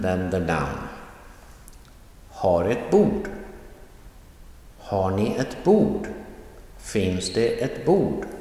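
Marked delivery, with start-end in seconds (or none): 2.3-8.3 light lead-in words, stressed bord; stress at the end. Shown as a demonstration. Teacher showing verb plus object, stress on bord. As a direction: save the weight for bord at each phrase end. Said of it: "there is a stress at the end".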